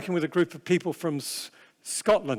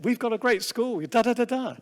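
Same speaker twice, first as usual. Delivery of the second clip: a hint of proud parents, pitched higher; 5 semitones higher than usual. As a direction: lightly voice the parents boasting about their school. Voicing proud parents again.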